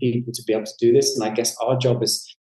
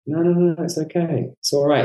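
higher, soothing no-no-no, gently calming; reassuring; 6 semitones higher than usual. Retold or imitated. Therapist calming his own panic about a struggling client, reassuring. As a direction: settle the alarm gently, like talking someone down.

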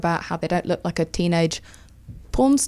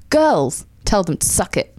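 quoting the advert; slower than usual. Retold or imitated. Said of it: "the advert says".

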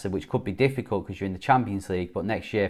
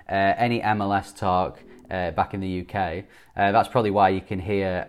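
echoey. Real, not acted. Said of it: "I sound a bit more echoey".

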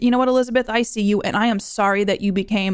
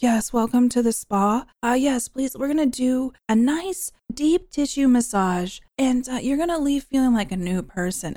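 soothing spa whisper. Retold or imitated. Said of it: "that whole spa scenario where it's like".

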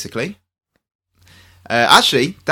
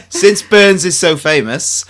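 mock Scottish accent; 6 semitones higher, 7 dB louder, slower than usual. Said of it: "could you please stop trying to be Scottish?".

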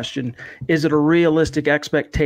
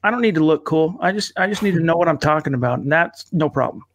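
numb from the dentist. Real, not acted. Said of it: "I can't quite enunciate the way I would like to".

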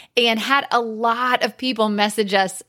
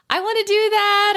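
high, excited mock exclamation; imitated eager followers; 12 semitones higher than usual. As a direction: quote an eager fan, pitched way up. Voices eager followers' reactions.

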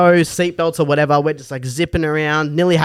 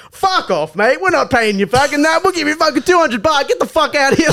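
high, aggressive yell, mock uncle; 12 semitones higher than usual. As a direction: send the driver packing. Drunk uncles yelling at driver.

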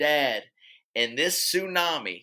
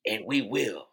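Morgan Freeman; 4 semitones lower than usual. Acted. Rallying the humans left on the world, mock-solemn rousing speech. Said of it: "Morgan Freeman gives this rousing speech".

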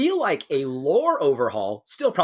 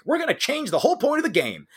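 mock announcement; 10 semitones higher, faster than usual. Mocking imagined publisher announcement.

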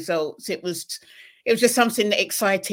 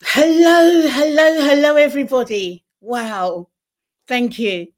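natural British accent, loud greeting; real British accent; 7 semitones higher, 10 dB louder than usual. Real, not acted. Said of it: "that's not a put-on accent. That's a real accent".

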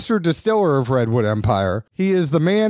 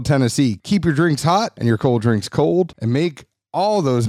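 brisk, upbeat sponsor read; 2 semitones lower than usual. Acted. Podcast host reading sponsor ads in a bright ad voice. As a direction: sell it like a podcast ad spot.

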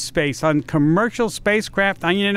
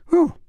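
mock breathless whew; 13 semitones higher than usual. Real, not acted. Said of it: "Let me catch my breath".

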